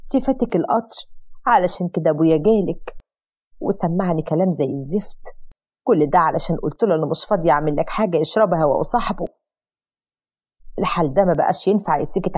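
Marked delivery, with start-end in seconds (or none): 0.0-9.2 fake crying. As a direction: whine it out like staged tears. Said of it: "فكملت في العياط أكتر وأكتر".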